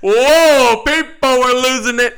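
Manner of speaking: high, loud burst of excitement; excited exclamation. Real, not acted. Co-host recalling the window scene, loud excited outburst. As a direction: whoop it, reliving the crowd's reaction. Recalling a big audience laugh.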